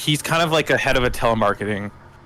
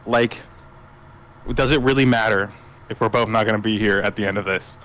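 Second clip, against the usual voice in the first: grounded; 3 semitones lower than usual. Acted. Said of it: "he's very grounded".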